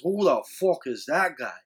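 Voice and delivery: attempted Irish accent; badly faked Irish accent; terrible Irish accent. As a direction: have a clumsy go at an Irish accent. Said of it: "That was a terrible accent".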